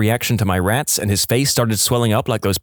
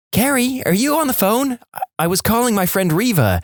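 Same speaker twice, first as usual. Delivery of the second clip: high-pitched mum voice; high chatty mother; mum on the phone; 11 semitones higher than usual. Acted. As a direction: play an oblivious mum cutting into the call. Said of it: "Mum, through the phone".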